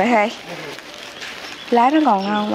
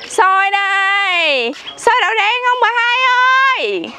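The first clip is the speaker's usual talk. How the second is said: street hawker cry; 8 semitones higher than usual. Real, not acted. Hawking sticky rice down street.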